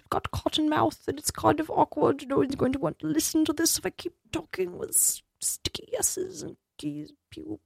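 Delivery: high, put-on voice calling to an imagined assistant; a pampered host bossing the studio help, fading to a dry whisper; fussy posh host. Host calling for water in the studio, put-on high voice fading to a whisper.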